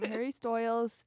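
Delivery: "Stoyles" with OY for long I; DJ mispronunciation. Retold or imitated. Recapping the DJ's errors, "Stoyles" with OY. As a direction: casually say "Stoyles" to rhyme with boils. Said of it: "he doesn't say it like that every time".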